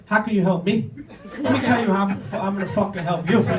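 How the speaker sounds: lightly acted cocky comeback; cocky uncle. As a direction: toss it back like a cocky uncle. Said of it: "he's so cocky, he's like".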